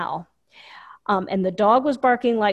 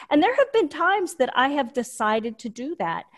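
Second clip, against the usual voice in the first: ordinary delivery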